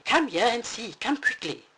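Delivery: high, loud urgent calling; Mama Bear calling Papa excitedly. Acted. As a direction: hurry him over, excited. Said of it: "she called excitedly".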